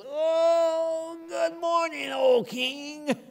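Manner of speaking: high, bright cheery greeting; cheerful Daniel. Acted. Daniel answers the king from the den, high and cheery. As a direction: call up from the pit as if nothing happened.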